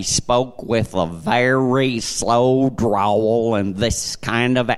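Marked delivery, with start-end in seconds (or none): 0.0-3.5 slow McGee drawl. Retold or imitated. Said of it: "and I'm not exaggerating".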